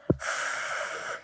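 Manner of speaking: tongue out, breathy hiss; wrong S, air trapped. Shown as a demonstration. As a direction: demo a bad lisped S. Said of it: "when you're making your S sound and you do this".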